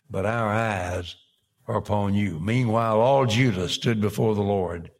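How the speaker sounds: projected, measured pulpit reading; Scripture reading. Acted. Preacher reads the king's prayer to the congregation, projected Scripture reading. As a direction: read it out firmly from the pulpit.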